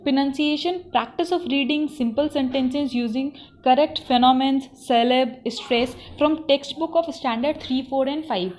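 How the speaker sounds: slow, deliberate reading of syllabus headings; syllabus dictation. Shown as a demonstration. Teacher reading the syllabus to trainees, slow and deliberate. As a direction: read each item out slowly so students can note it. Reads syllabus items slowly aloud.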